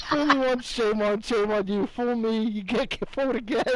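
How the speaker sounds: fumbling folksy Bush quote; George Bush impression. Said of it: "that says".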